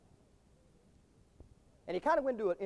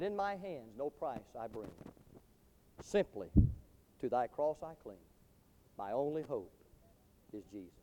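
very low, soft and halting; humble hushed plea; 8 semitones lower, 8 dB quieter than usual. Acted. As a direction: offer it reverently, with pauses between phrases. Humble believer's plea at the gate.

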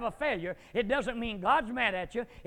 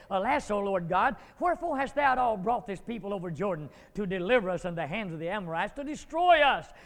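whining; 5 dB louder than usual. Acted. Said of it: "sound like a whining church member".

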